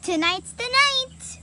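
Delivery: high, bright-eyed and eager; young girl who can't wait for tonight; excited girl. Acted. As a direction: burst out with excitement, pitched high. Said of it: "I can't wait. I'm so excited".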